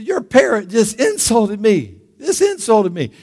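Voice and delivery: acted customer grievance; offended customer. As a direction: lodge an affronted complaint, stretched out. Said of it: "he tells the manager".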